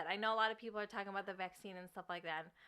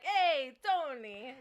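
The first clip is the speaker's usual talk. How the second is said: friendly call to neighbor; 5 semitones higher, 6 dB louder, much slower than usual. Retold or imitated. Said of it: "we're always like".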